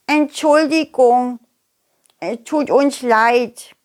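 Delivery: slow, high apology; sheepish little worms. Acted. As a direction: apologize like shy kids. Worm kids apologize.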